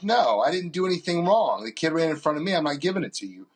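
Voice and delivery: a touch of protesting irritation; mildly pissed refusal. Retold or imitated. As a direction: act out digging your heels in, annoyed. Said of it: "now I'm kinda pissed".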